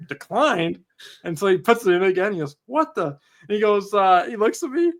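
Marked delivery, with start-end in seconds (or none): 0.1-0.8 Declined as a baffled rising question; puzzled echo. Retold or imitated. Employee puzzled at the reader, mild disbelief. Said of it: "He's like". 2.6-3.0 startled. Retold or imitated. Card declined again.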